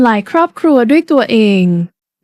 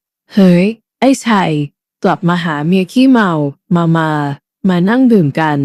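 mock drunk shout; 7 semitones lower than usual. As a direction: drag the words out like a drunk calling his wife. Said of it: "แก้วตะโกนเสียงดัง".

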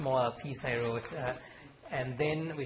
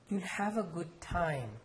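almost pleading; 5 semitones higher, slower than usual. Acted. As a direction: plead gently with the boy. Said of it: "in an almost pleading tone".

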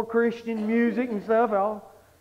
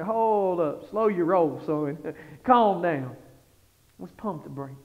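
calming down; 4 semitones lower, slower than usual. Retold or imitated. God answering the overeager preacher, settling him down. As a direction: rein in an eager youngster. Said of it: "And he's like ... Calm down".

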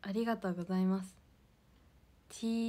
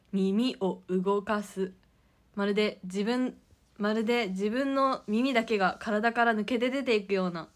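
mock explainer read; slower than usual. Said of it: "みたいなこと言ってた".

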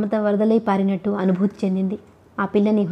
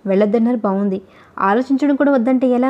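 usual speaking voice

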